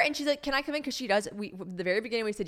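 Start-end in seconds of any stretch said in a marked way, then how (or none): 0.4-0.8 high, lightly voiced child; imitated little girl. Little girl asking neighbors in, lightly imitated child. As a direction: ask like a small visitor at the door.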